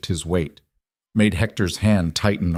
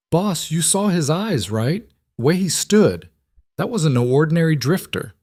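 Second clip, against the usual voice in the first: uneasy henchman; 8 semitones higher than usual. Acted. Henchman warns his boss.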